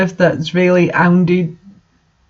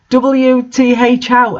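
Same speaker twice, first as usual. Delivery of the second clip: slow, drawn-out yell; hammed-up teen outburst; mock scream; 5 semitones higher, slower than usual. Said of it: "I screamed".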